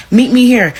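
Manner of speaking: an enraged challenge; on ten. Retold or imitated. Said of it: "I'm on ten".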